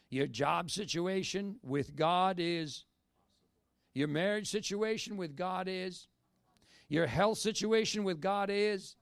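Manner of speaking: loud, slow, high, hammering each line; fervent shout. Real, not acted. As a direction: drive each point home like a revival preacher. Fervent preaching list.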